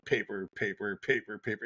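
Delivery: soft, evenly repeated printer chug; quiet, mechanical repetition; imitating a printer. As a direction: drone it like pages feeding out. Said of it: "the printer go".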